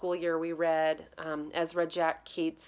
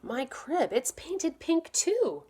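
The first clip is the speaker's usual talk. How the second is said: muttered; 10 semitones higher, slower than usual. Acted. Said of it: "He saw his crib and muttered".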